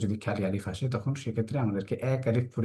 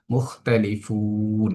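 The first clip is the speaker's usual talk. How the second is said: slow demonstration; 3 dB louder, much slower than usual. Shown as a demonstration. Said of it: "তিন আলিফ টেনে".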